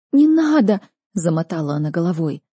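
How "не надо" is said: pleading. A narrator's reading. Sister begging her to stop.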